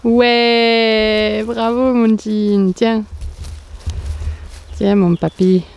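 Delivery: warm praise for a pet; praising the dog. Real, not acted.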